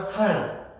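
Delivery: "살" with lax s, Gyeongsang style; Gyeongsang pronunciation. Shown as a demonstration. Preacher demonstrates Gyeongsang speakers saying rice, Gyeongsang lax s. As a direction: Gyeongsang accent, softening 쌀's tense ss into "살". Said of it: "쌀은 뭐라 하면 살".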